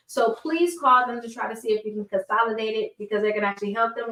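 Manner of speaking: talking around new braces; slightly slurred speech through braces. Real, not acted. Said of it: "It's so hard to talk on my braces".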